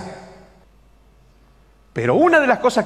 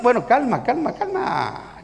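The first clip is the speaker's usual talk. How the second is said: calming someone down; 4 semitones higher, 4 dB quieter, slower than usual. Retold or imitated. Pacifying the agitated elder.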